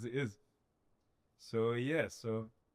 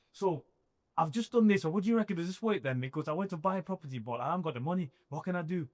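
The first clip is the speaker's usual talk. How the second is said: anxious asking; 5 semitones higher than usual. Retold or imitated. Retold pleading call to advisor.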